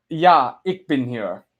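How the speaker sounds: slow "Ja, ich bin hier", stressed "Ja", falling end; careful German pronunciation. Shown as a demonstration. Streamer practises a viewer's name, careful German pronunciation. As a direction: linger on "Ja", then "ich bin hier" with ick for "ich". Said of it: "Am I saying that right?".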